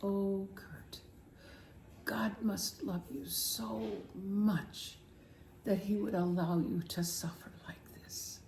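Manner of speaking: soft German father at the hospital bed; imitating German father. German father whispering to his sick son in hospital. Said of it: "with his German accent".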